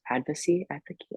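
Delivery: hesitant, questioning stab at saying "Advocacy"; unsure pronunciation. Real, not acted. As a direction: feel for the word "Advocacy", dropping a syllable. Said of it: "I don't know what the word is".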